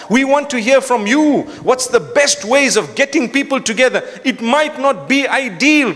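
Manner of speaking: high-pitched, driving sermon delivery; rousing appeal to a congregation; impassioned preaching. Real, not acted. Preaches with force.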